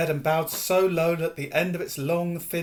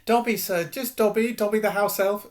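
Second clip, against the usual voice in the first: humble house elf; 8 semitones higher, 5 dB louder than usual. Acted. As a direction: introduce yourself as a lowly servant. Dobby introduces himself.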